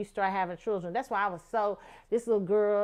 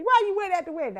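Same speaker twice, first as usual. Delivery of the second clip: questioning cousin; 10 semitones higher, 5 dB louder, faster than usual. Retold or imitated. Cousin questioning her absence.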